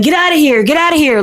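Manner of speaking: mock the owner as a whining child; whiny seven-year-old. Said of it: "sounding like a seven-year-old".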